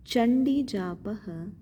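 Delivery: जापः ending in a breathy echo, जापहः; visarga sounded. Shown as a demonstration. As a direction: sound the visarga clearly after प. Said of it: "विसर्ग है प के पश्चात". (विसर्ग सहित उच्चारण)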